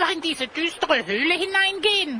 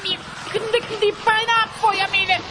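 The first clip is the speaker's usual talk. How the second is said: slightly higher, begging for help as the legs give; weak pleading; 4 semitones higher, slower than usual. Acted. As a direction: call to Feuermähne for help, close to collapse. Legs giving way, begs for help. (schwaches, flehendes Bitten)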